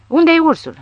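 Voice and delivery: high neighing shout on Unde-i ursul; whinny Unde-i ursul like a horse. A narrator's reading. Barcelona neighs as he shoots up the room, whinnying. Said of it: "necheza Barcelona".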